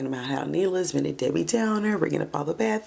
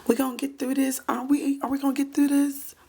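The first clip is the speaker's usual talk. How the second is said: pleading husband; 6 semitones higher than usual. Retold or imitated. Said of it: "He's like".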